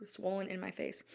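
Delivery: whispered under the breath. Real, not acted. Panicking vlogger tells viewers in a whisper. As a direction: drop to a whisper mid-panic.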